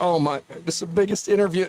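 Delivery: anxious, panicked, near-tears exclamation. Recounting a story about an interview, the speaker acts out his younger self: acting out past panic. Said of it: "I'm panicking".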